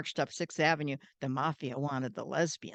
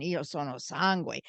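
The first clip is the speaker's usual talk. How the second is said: Sicilian Italian phrase, said calmly; 2 semitones lower than usual. Shown as a demonstration. Explaining the real Sicilian line, Sicilian Italian. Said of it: "And that's real Sicilian".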